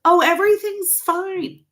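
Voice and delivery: a hammed-up, dismissive parent; mocking stepdad. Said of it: "my stepdad".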